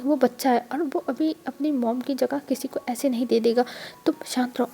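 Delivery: soft, soothing whispered aside; hushed whisper. Acted. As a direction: whisper it gently to calm him down. Stepmother calming angry husband.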